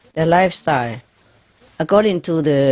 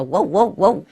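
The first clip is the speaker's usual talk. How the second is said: mock African grey; 3 semitones higher than usual. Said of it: "like the African grey also".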